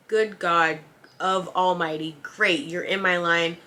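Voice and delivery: drawn-out, dragging dread on great; mock despair, dragging the words; exasperated groan. Cashier dreading the rude customer, a slow exasperated groan.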